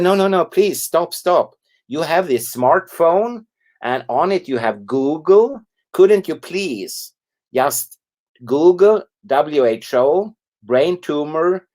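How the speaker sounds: hurriedly calm an angry stranger, then spell it out; urgent pleading. Retold or imitated. Urging the angry lady to stop.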